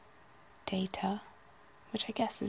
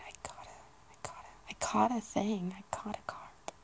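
put-on Irish accent; 2 semitones higher, 4 dB quieter than usual. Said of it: "can't do Irish at all".

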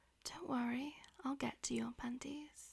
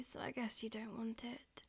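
whispering. Acted. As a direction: whisper it close to the ear. Whispered throughout.

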